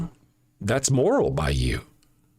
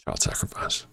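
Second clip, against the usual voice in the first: quiet; 6 dB quieter than usual. Shown as a demonstration. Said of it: "I'll say it again slower".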